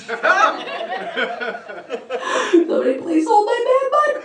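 put-on high, crying drunk plea; whiny drunk wail. Drunk guy at the bar.

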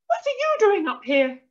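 high, loud scolding; shrieking wife. A narrator's reading. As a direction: shriek at a useless husband. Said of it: "she shrieked at her husband".

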